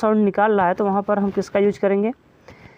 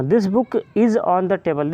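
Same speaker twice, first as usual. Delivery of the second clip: slow example reading; much slower than usual. Shown as a demonstration. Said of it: "example लेते हैं".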